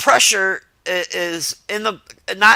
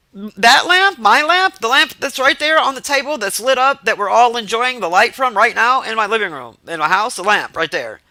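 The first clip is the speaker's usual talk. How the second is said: incredulous; 5 semitones higher than usual. Retold or imitated. Retold disbelief about his lamp.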